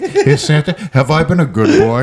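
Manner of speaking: lightly acted little boy, grown man's voice; mock childish wondering; deep-voiced child. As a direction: ask Dad like an earnest kid. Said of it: "hairless baby dick with that voice".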